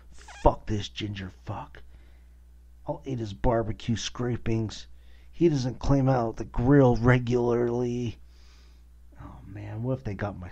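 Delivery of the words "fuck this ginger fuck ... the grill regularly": mock rat voice. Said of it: "He's like".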